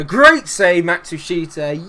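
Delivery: loud, high burst of relief; excited praise. Real, not acted. Gamer hailing Matsushita's save, excited shout. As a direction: shout it out for the keeper.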